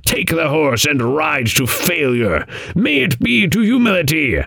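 high-pitched, indignant raven; angry croak. A narrator's reading. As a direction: send him off crossly, pitch climbing at the end. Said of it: "with anger in his croak".

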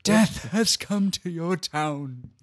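lightly voiced slow Loomis; a hint of doom-laden Loomis; Loomis impression. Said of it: "Mine was inferior".

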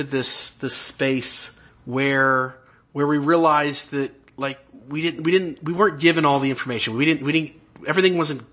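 halting speech with false starts; stammering. Real, not acted. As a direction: stumble and restart the words. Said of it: "And I'm stammering here".

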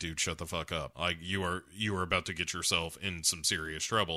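low, hushed aside as the crowd; mock warning, dropped low and soft; warning bystanders. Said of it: "all the crowd around him is like".

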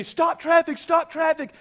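sharp loud command to stop traffic; barked order. Retold or imitated. Officer ordering the speaker to halt cars, loud command. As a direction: call it out like a cop at an intersection.

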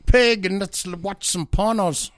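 mock grandma. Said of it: "She says".

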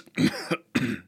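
strained cough from a squeezed throat; choking cough. Acted. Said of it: "still gasping for breath".

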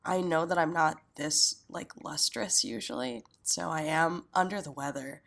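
stuffy nose, throat congested; sick voice with blocked nose. Real, not acted. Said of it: "As you can probably hear by my voice".

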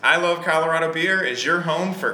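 announcer-style podcast intro. Acted. Podcaster greeting his listeners in a podcast voice. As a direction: read it like a radio host opening the show. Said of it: "Why are you talking like that?".

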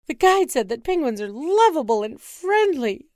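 loud, insistent husband; George in loud denial. Acted. Husband to wife, loud denial. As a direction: insist firmly.

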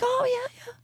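high, put-on voice of the neighbor lady; mock neighbor voice. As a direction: ask it like the prim upstairs neighbor. Neighbor lady's reply.

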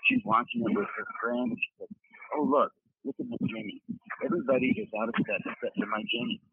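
bad phone line from a gym; calling from a noisy gym; echoing gym. Real, not acted. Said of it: "Your sound quality, by the way, is really bad".

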